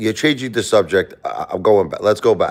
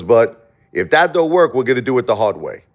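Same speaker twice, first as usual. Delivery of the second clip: imitating Trump; 5 semitones higher than usual. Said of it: "He goes".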